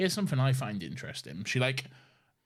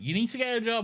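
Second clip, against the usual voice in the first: nagging mum; 12 semitones higher, faster than usual. Retold or imitated. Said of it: "just nagging, nagging".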